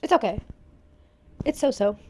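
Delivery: jittery from coffee; shaky, over-caffeinated; too much caffeine. Real, not acted. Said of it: "My hands are shaking 'cause of coffee".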